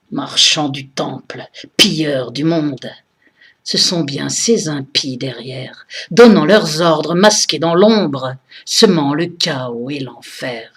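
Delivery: solemn, measured militant verse; impassioned poem recitation. Acted. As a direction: declaim each verse, letting the line endings fall. Continues reciting her poem.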